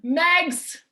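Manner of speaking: a calling-out whine of her nickname; imitating someone calling her name; whiny complainer. Mimicking complaining people calling out to her. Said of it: "That's how people talk to me".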